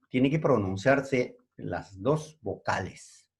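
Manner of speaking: slow, every word spelled out for students; slow and deliberate. Shown as a demonstration. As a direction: lay it down slowly so the class writes it. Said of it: "Para que haya diptongo". (despacio, marcando cada palabra)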